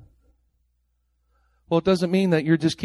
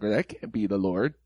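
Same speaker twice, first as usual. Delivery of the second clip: lower, softer dismissive churchgoer voice; mocking skeptic; 6 semitones lower, 5 dB quieter than usual. Preacher mocking American churchgoers who doubt prophecy, low and soft. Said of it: "Most American Christians be like".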